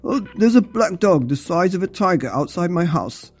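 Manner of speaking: mildly alarmed report. Acted. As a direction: report it with a touch of panic. Alarmed father phoning police.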